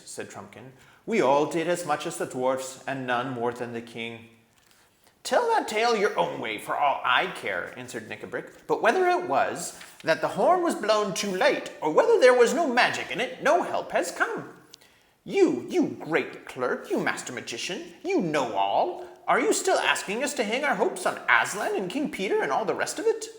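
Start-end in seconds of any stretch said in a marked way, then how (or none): 1.0-4.3 lightly raised loyal badger voice; honest badger. A narrator's reading. Badger defending the king against the dwarf, firm. 5.2-7.7 much higher, loud furious dwarf; angry dwarf. A narrator's reading. Nickabrick snapping at the king, high and furious. 8.7-23.3 much higher, loud furious dwarf; angry dwarf. A narrator's reading. Nickabrick snapping at the king, high and furious.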